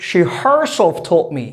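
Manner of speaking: slow, insistent "she herself", falling at the end; deliberate weight on "she herself"; emphasis on SHE HERSELF. Shown as a demonstration. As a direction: press "she herself" to convince a doubter. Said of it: "gonna bring emphasis on the word she".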